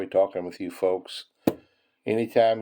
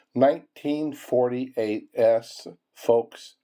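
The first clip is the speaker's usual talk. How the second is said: excited; 2 semitones higher, much slower than usual. Real, not acted. Excited find of a coin.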